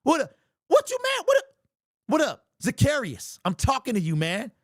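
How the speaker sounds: mocking a player's full name from the crowd; heckling fan. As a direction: needle him like a fan in the stands.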